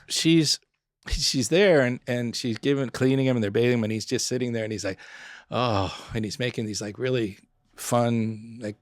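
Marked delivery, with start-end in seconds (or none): 5.5-5.9 soft, mock moan; imitated pleasured moan. Patient imagining as the nurse washes him, mock moaning. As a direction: moan quietly as if enjoying it. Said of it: "kind of moaning sounds".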